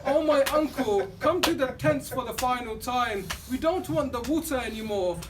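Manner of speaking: loud, wailing lament to the uncle; crying out. Acted. Little girl wailing over her uncle's body, loud and grieving. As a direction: cry out to him, begging him to come back. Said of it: "began crying".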